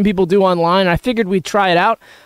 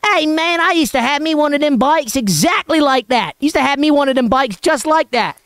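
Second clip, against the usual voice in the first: Southern neighbor voice; 4 semitones higher than usual. Retold or imitated. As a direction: imitate the excited Southern man in a rural twang. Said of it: "And he goes".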